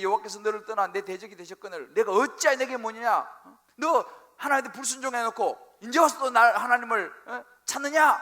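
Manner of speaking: loud, rising scolding; furious rebuke. Acted. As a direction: tear into him for disobeying. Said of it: "호통을 치는 것이죠".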